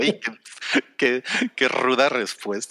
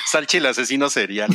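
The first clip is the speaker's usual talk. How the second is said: laughing. Real, not acted. Host laughs at Salchi's deadpan answer.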